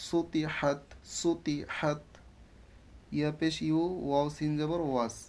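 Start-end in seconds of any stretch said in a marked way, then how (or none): 0.1-2.0 সুতি হাত with the h of হাত from the throat; throaty big ha. Shown as a demonstration. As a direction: push the হা of হাত out through the throat. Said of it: "এই জন্য গলা দিয়ে পড়বে". (সুতি হাত, হা গলা দিয়ে)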